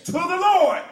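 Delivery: ringing, emphatic pulpit reading; forceful scripture preaching. Acted. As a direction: drive each phrase home with punched key words.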